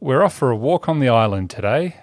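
a relaxed Australian accent; Australian accent demo. Shown as a demonstration. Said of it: "Say something like".

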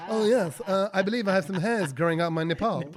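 hammed-up posh English accent, laughing; mock upper-class English voice. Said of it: "in a posh accent".

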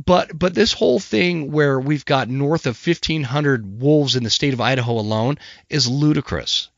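hoarse, losing voice from a cold; rough voice getting over a cold. Real, not acted. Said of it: "sorry about my voice".

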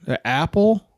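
hammed-up disbelief at a friend's taste; mock outrage. Retelling how he yelled at a friend over apple whiskey, mock outraged shout.

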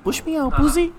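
teen shouting at his father in the bathroom, hammed-up yell; mock teen yell. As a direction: play the bratty teen screaming at his dad. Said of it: "Gritándole al papá en el baño".

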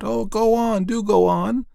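high, loud pleading; eager cries. Acted. Clapping children begging the man to go on, high and loud. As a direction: beg him to keep going. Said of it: "cried out".

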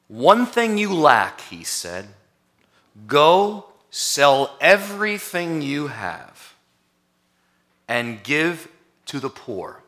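very slow, weighty reading of Jesus; Jesus' tender call. Acted. Jesus speaks to the rich young ruler, slow and solemn. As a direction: draw out each phrase like a gentle command. Jesus' words read slowly.

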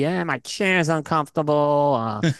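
slow, grumpy cigar man; lightly voiced cranky interviewee; Steve Sokka impression. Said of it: "That's a really good Sokka impression".

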